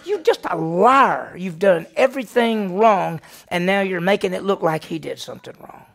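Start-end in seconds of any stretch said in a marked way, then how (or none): 0.1-3.2 indignant scolding. Real, not acted. Preacher scolding the wife.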